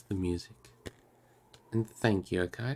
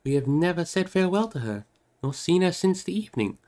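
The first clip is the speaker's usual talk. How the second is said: high, louder anguished plea; raised voice full of dismay; distressed crying out; 10 semitones higher, 5 dB louder than usual. Acted. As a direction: lament that they forgot to say goodbye. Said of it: "he cried".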